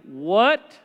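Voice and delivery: the body yelling at the brain in alarm; back's mock protest. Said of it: "my back said to my brain".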